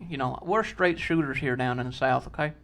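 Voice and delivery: put-on folksy Southern trooper accent; Southern patrolman laying down the law; Georgia State Patrol accent. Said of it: "does sound like Georgia State Patrol".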